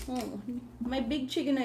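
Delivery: ordinary delivery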